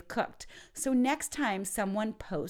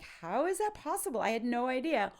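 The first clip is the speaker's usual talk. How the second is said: higher, stunned; shocked disbelief; 4 semitones higher, faster than usual. Shown as a demonstration. Hearing surprise wedding news, higher stunned disbelief. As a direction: say it like it can't be true. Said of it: "shock and disbelief".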